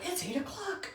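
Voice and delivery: high, slow mock announcer voice; alarm voice. Playful host mimicking her alarm, high and slow. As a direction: sing it out like an alarm going off.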